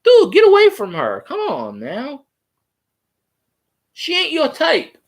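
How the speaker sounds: high, indignant mock rant at the co-host; mock outraged fan. Fan yelling at a co-host to leave the host alone, high mock outrage. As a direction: squeal it like an outraged fan telling him to back off. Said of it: "I'm like".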